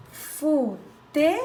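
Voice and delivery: "Futebol" slowed, syllables marked; syllables split. Shown as a demonstration. Teacher giving a three-syllable example, slow and split. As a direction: say "Futebol" slowly, beat by beat. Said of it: "Outro exemplo de palavras com três sílabas".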